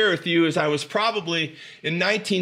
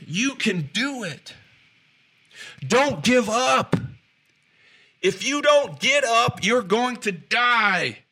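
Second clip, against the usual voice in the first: slow, drawn-out coach yell, higher and louder; retold coaches' yelling; 5 semitones higher, 3 dB louder, slower than usual. Football coaches yelling at players doing drills, slow loud yell. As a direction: bark it like a drill coach pushing exhausted players.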